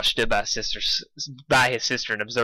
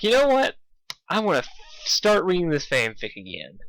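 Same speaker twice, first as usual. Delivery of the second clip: excited self-quote; 5 semitones higher than usual. Retold or imitated. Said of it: "and I'm like".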